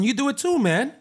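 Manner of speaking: high, hammed-up Drogba voice; terrible Drogba impression. Footballer mimicking Drogba to his teammate, badly. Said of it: "that was a terrible Drogba impression".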